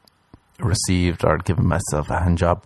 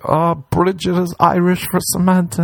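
high hasty cover-up; flustered excuse; 10 semitones higher than usual. Pretend. Caught by Samantha, high flustered excuse. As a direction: cover up in a panic.

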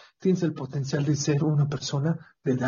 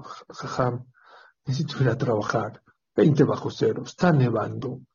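put-on old man; 4 semitones lower than usual. Old man pleads with rabbi.

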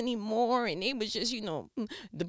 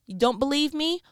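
loud, high challenge to the crowd; preacher's rhetorical dare; emphatic challenge; 7 semitones higher, 6 dB louder than usual. Acted. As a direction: throw the question out to them.

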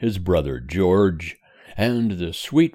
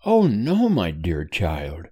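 cheerful. Acted. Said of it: "replied his mother cheerfully".

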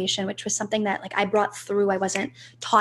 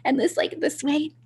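put-on higher, nasal little girl voice; 5 semitones higher than usual. Shown as a demonstration. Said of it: "like, nasally, like, higher pitched".

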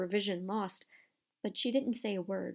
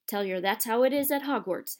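gruff, louder growl; 2 semitones higher, 5 dB louder than usual. Acted. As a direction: growl it back at him. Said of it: "Hagrid growled".

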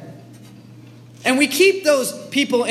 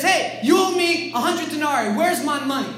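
higher-pitched, mildly acted demand; mock demanding; 5 semitones higher than usual. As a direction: play a creditor confronting a debtor. Acted servant demands his money.

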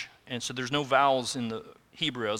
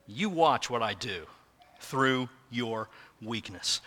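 God, tender; 3 semitones lower, 3 dB quieter than usual. Acted. God comforting a frightened Moses, soft and tender. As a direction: gently promise to stay with him. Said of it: "That's what God is saying to Moses".

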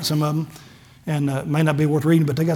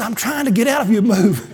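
friend's line delivered through a laugh; laughing quote; 4 semitones higher than usual. Retold or imitated. Preacher retells his friend's funny reply with laughter. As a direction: laugh while saying it. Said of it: "He said".

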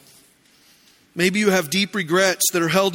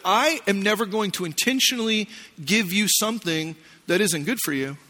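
gentle sincere; 2 semitones lower, 5 dB quieter than usual. Retold or imitated. New wife reassuring her husband about ice cream, softly tender. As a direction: say it softly, meaning every word. Wife's loving explanation.

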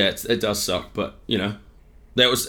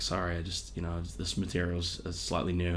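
soft, low apologetic mumble; quiet, lower-pitched bombing comic; imitating Seinfeld; 3 semitones lower, 11 dB quieter than usual. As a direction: mumble an excuse to the crowd. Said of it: "he's like".

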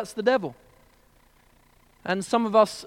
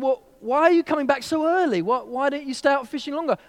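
businessman; 7 semitones higher than usual. Acted. Businessman quizzing the fisherman.

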